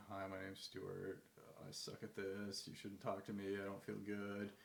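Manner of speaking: slow, dejected introduction; mock self-doubt. Nervous networker introducing himself, mock dejected and slow. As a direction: mope through it like a hopeless beginner. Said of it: "I knew that I would be conveying that".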